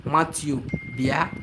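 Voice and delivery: "Matthew, bia" called in Igbo, "bia" for come. Shown as a demonstration. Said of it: "I say, when I want to say".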